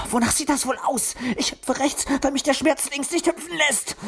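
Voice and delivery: high, irritated retort; snapping. A narrator's reading. Luzi snaps at Wuschel while hopping. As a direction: snap back through the pain. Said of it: "fauchte sie".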